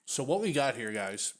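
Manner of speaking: talking through a mouthful; words round a bite of bagel; mouth full. Real, not acted. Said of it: "I'm sorry if I'm talking with my mouth full".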